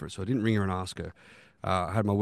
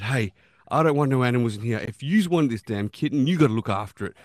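mock stern dad; 3 semitones higher, 6 dB louder than usual. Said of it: "I said".

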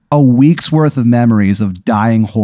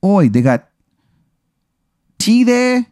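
bad English accent; 11 semitones higher than usual. Eddie English asks the player about tea, bad English accent. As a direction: fake cockney rising high on tea. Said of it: "His accent is fucking terrible".

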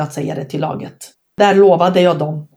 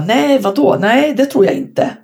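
high, quick mock-surprised denial; startled denial; 5 semitones higher than usual. Player denying weight gain to the coach, mock surprised. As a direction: brush off the question with a startled no. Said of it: "Jag bara".

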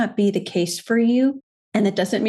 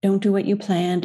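mock coddling. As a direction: coo over yourself like a poor thing, mock sympathy. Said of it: "I could see that being a way of coddling".

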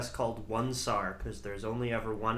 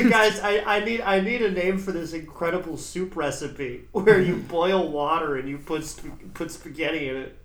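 louder, eager fake request; mock pleading; 3 semitones higher, 5 dB louder than usual. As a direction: beg the chat for a name, half joking. Mock plea for recipe name.

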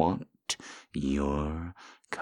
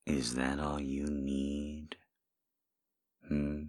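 whisper; slower than usual. Acted. Softer teasing question.

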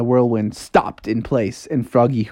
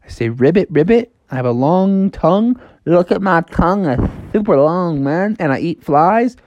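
lightly voiced frog, a bit higher; eager Froggy; 5 semitones higher than usual. Froggy proves to the house he is a frog, lightly eager. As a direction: list your proofs with bouncy eagerness. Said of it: "And he's like".

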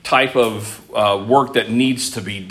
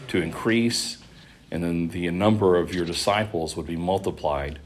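prayer. Acted. Leads a congregational prayer.

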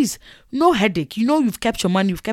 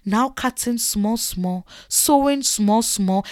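drawn-out, exasperated retelling; slow, bit by bit; much slower than usual. Retold or imitated. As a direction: drag out each little step. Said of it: "the person was so slow".

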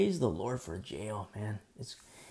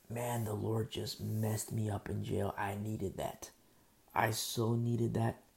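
soft, slow whisper of gratitude; hushed testimony; 4 semitones lower, 8 dB quieter, slower than usual. Retold or imitated. Preacher telling moms his jail story in a soft whisper. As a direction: whisper it like a confession.

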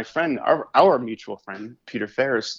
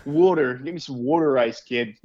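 put-on Baltimore accent; 3 semitones higher than usual. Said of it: "mid-Atlantic accent".

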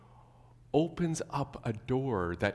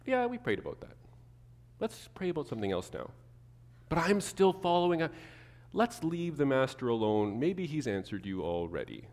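dismissive church friend; 5 semitones higher than usual. Retold or imitated. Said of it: "But maybe it's like".

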